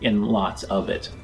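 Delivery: steady, measured scene-setting narration; lightly dramatic GM storytelling; game master narration. Acted. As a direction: paint the journey for the players.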